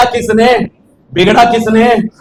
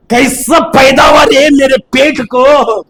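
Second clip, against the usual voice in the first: scolding parent; 3 semitones higher, slower than usual. Retold or imitated. Parent voiced scolding child.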